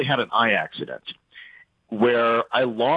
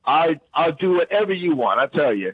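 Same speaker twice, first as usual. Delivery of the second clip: hammed-up, higher-pitched Louisiana accent; heavy Louisiana accent; 5 semitones higher, 3 dB louder than usual. Shown as a demonstration. Guest obliging host's request for his heaviest accent, thick Louisiana accent. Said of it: "speak in your heaviest Louisiana accent".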